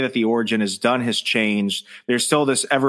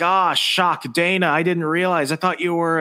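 mock shocked apology; 6 semitones higher than usual. Retold startled apology after lashing out.

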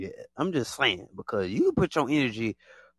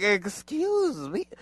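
indignant excuse me; 8 semitones higher, much slower than usual. Retold or imitated.

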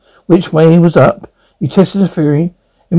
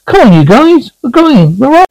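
high, urgent wake-up call; rally them to get moving; rousing call; 8 semitones higher, 4 dB louder than usual. A narrator's reading. Kicking sleeping crewmates awake, calling out. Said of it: "he said, kicking them awake".

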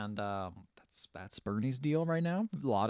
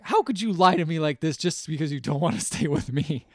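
higher, hammed-up hurt accusation; mock indignation; 4 semitones higher, 4 dB louder than usual. Woman rejected by her man, mock indignation. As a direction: accuse them, half-laughing as you act it.

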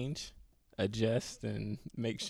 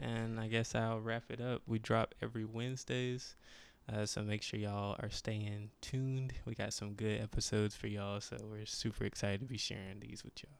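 soft, smooth late-night radio voice; soft sexy voice; 8 dB quieter than usual. Real, not acted. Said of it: "Why you got this little sexy voice on".

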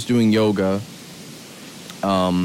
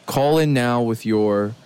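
slow, pitched-up TV pitchman; infomercial voice; 3 semitones higher than usual. Shown as a demonstration. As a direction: sell it like a late-night infomercial. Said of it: "I'm sorry for using my infomercial voice".

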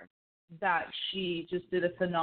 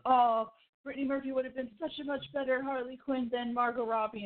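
higher-pitched mock arguing fan; 5 semitones higher than usual. Fan arguing online over Harley Quinn casting, mock-argumentative. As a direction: mimic a commenter pushing their favorite. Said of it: "people are literally duking it out".

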